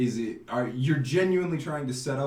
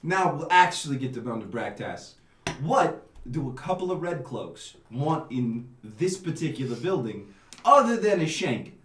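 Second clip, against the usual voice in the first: put-on Italian accent; 2 semitones lower than usual. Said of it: "Italian accent".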